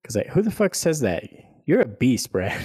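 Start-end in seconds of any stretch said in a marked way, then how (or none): 1.7-2.6 mocking voice. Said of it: "I'm doing that voice".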